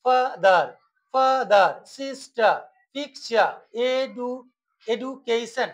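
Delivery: ফাদার, সিস্টার, পিকচার, এডুকেশন lightly split by syllable; small breaks inside ফাদার, সিস্টার, পিকচার, এডুকেশন; broken into syllables. Shown as a demonstration. Teacher recapping for students, ফাদার and the rest lightly divided. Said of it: "দুবার উচ্চারণ করছি".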